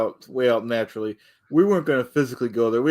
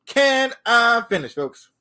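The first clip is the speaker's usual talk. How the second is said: much higher, slow, stretched out and pleading; exasperated drawn-out plea; 10 semitones higher, slower than usual. Real, not acted. Cohost keeps cutting in, so a slow exasperated plea. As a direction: drag it out, exasperated. Repeatedly demanding to finish.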